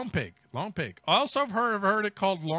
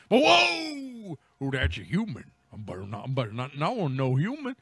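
deer voice; 5 semitones lower, faster than usual. Retold or imitated. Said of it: "They're gonna be like".

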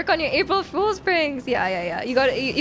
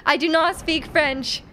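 slow, firm denial; 2 semitones higher, slower than usual. Real, not acted. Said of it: "I'm sorry".

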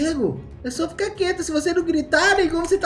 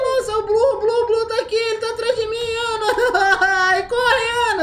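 being chased; 6 semitones higher than usual. Real, not acted. Monster behind him, fleeing.

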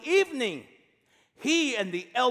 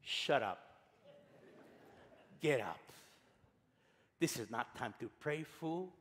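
God's curt reply; 7 semitones lower, 13 dB quieter than usual. Acted. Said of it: "God responds".

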